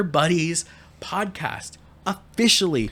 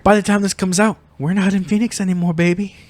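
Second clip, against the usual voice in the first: higher, louder gleeful taunt; gleeful teasing; 5 semitones higher, 4 dB louder than usual. Real, not acted. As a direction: gloat it with a grin.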